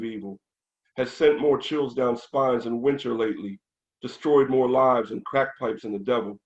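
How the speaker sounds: rhythmic spoken-word delivery, firm opening; verse reading. Acted. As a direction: recite the satirical verse line by line, riding the meter. Reads verse from own book.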